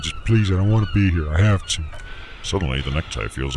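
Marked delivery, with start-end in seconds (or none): 0.0-1.8 high, loud pleading; desperate begging. Acted. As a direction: plead to be taken home, voice strained high. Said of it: "I keep begging".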